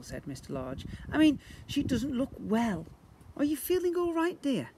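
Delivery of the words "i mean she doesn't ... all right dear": lightly voiced concerned dad, higher; a hint of a caring husband; Mr Large's concern. A narrator's reading. Husband asks his ill wife how she feels, gentle dad.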